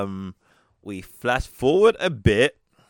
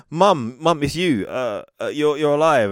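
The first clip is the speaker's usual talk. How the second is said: higher, louder mock amazement; mock emotional reunion; 6 semitones higher, 5 dB louder than usual. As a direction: lightly act out a stunned reunion. Retold daughter seeing her mother alive.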